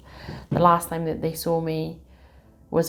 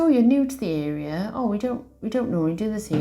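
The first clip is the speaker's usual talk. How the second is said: nurse's surprise; 4 semitones higher, faster than usual. Retold or imitated. Nurse voiced in retold story.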